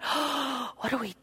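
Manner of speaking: breathy hushed dismay, trailing to a whisper; hushed horrified thought; shocked inner whisper. Retold or imitated. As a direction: gasp it to yourself in quiet horror. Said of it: "And I thought".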